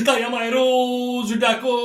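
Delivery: shout. Acted. Jatra villain calling out.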